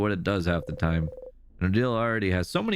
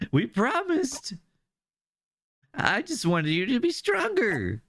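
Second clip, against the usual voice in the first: higher, slow, pleading promise; earnest friend; 12 semitones higher, slower than usual. Acted. Bryn explaining why he fell, slow and pleading. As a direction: remind them of the promise.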